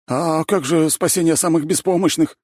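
high, loud wail; wailing plea. A narrator's reading. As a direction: howl for pity. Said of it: "взвыл Зайцев".

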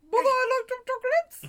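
high Gump imitation, a bit laughing; Forrest Gump voice. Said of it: "it sounded just like that".

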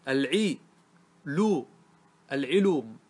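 "al-'i", "lu", then العلوم as "al-'ilum"; syllable-by-syllable demonstration. Shown as a demonstration. Teacher showing a nonexistent word pattern, العلوم broken into syllables. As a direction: split it with pauses, then join as العلوم. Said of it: "العين مكسورة واللام مضمومة".

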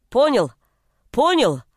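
loud, breathless demand; angry sister yelling at her little brother; furious shout. A narrator's reading. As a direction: shout it in a rage, shaking him. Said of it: "Задыхаясь в гневе, кричала Нина".

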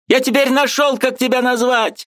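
very high triumphant cry; shouting. A narrator's reading. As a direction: shout it out in discovery. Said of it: "кричал тот же Михалевич".

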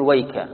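ويك said alone as wayka, then a break; stop after kaf. Shown as a demonstration. Teacher showing another readers' stop, stop after kaf. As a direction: stop on ويك before anna. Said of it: "ومنهم من يقول".

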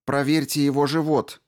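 demanding. A narrator's reading. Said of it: "потребовала Рао".

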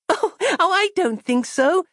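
put-on high giggling child; a little girl laughing the idea off; high, amused child's giggle. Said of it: "laughed Christabel".

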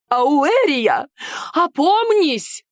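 a mock-alarmed chaperone calling her back. A narrator's reading. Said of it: "воззвала ко мне женщина".

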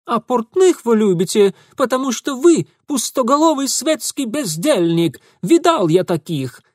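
high, loud contemptuous tirade; scornful accusation. Acted. Ingvar scornfully accusing Mitya. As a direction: sneer it at him. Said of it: "Ingvar accusing".

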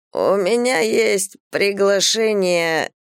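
slow, tongue-tied slurring; slurred drunk speech. Acted. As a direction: say it like a drunk whose tongue won't obey. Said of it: "заплетающимся языком проговорил мужчина". (заплетающимся языком)

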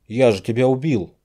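loud, high disbelief; baffled he's alive; stunned. A narrator's reading. Stunned man sees friend alive. (потрясённо, громко)

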